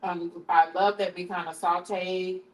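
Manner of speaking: talking with mouth full. Real, not acted. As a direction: speak around a mouthful of pizza. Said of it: "I'm talking with my mouth full".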